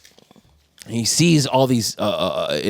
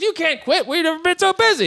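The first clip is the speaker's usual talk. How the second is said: retold protest; 12 semitones higher than usual. Acted quarrel over quitting.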